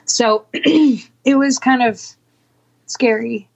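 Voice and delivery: throat catching, clearing it; choking on something mid-sentence. Real, not acted. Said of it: "I'm choking on something".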